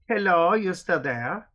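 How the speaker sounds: high, loud call into the intercom; a gate guard checking if the visitor is still there. Acted. Gate guard calls to the waiting driver, high and loud.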